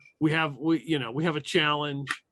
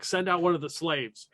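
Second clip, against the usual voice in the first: slightly raised call, not a full shout; mild acted yell; 3 semitones higher than usual. Game master as fighter yelling back across, mild yell. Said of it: "you hear him yell back".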